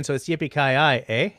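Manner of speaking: lightly joking Canadian catchphrase; Canadian version. Pretend. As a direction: add a Canadian "eh" tag at the end. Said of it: "we're Canadian".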